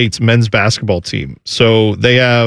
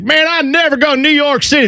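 much higher hammed-up redneck voice; mock hick voice; redneck guy from Ohio; 13 semitones higher than usual. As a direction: play the Ohio redneck who hates the city. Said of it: "the redneckiest guy from Ohio who's like".

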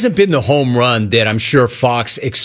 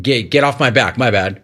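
dismissive mock brush-off; 2 semitones lower than usual. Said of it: "Acknowledging it is like".

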